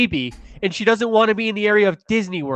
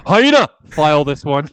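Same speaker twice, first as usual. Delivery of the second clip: hyena shout; 3 semitones lower, 5 dB louder than usual. Acted.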